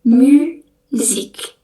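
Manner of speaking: "Musique" said slowly as myzik; drawn-out French myzik; French pronunciation. Shown as a demonstration. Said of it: "ada musique". (ucapkan "Musique" pelan, myzik)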